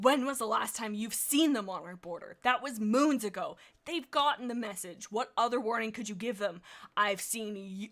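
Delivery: mild growl. Acted. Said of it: "Snow Whistle growled".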